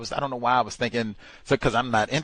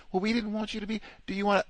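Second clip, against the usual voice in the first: much higher, sweet coworker voice; mock coworker; 11 semitones higher, much faster than usual. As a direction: coax him like a fake-nice colleague. Coworkers' sugary invitation.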